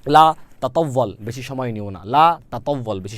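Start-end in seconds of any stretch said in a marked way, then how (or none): 0.1-1.2 slow model phrase. Shown as a demonstration. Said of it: "আপনাদের কিন্তু বারবার মুখ দিয়ে বলতে হবে".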